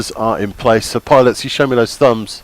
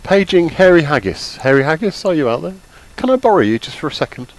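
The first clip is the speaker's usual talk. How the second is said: calling from far away; 5 semitones higher than usual. Real, not acted. Paging a pilot across the field.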